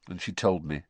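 subdued, dull delivery; dully. Acted. Harry admitting he asked her out, dully. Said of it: "Harry said dully".

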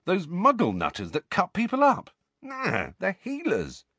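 a light lad's voice, offhand; Ron's voice. Acted. Ron voiced, higher pitch.

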